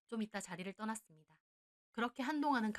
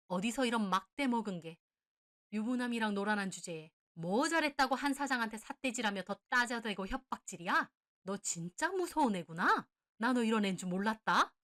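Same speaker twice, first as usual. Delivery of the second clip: furious berating; 5 dB louder than usual. Acted. Mother berating the mistress, appalled. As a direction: lay into her, appalled.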